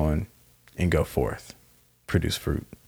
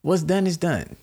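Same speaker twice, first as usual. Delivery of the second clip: slow, raised mock-calm; higher, slow "it's done" said to an angry mate; slow, soothing brush-off; 8 semitones higher, slower than usual. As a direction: drag it out, laughing it off. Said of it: "and I'm like".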